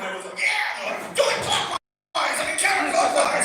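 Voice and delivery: unvoiced, loud, slow metal growl; demonic growl. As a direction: rasp it like a metal singer.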